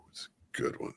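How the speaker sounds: breathy whisper, no voice at all. Acted. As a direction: say it only on breath. Repeats line, whispered first.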